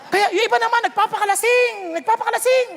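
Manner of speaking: laughing. Real, not acted. Laughing while listing drunks.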